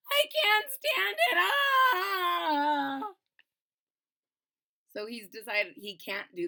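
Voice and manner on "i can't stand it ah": high, loud fearful yelp; panicked cry. Acted. Panic as beans approach.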